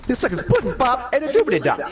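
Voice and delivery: mock Cosby scat.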